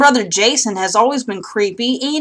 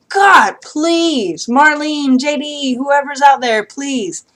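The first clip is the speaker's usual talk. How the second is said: excited pleading; 4 semitones higher, much slower than usual. Real, not acted. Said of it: "I'm so excited".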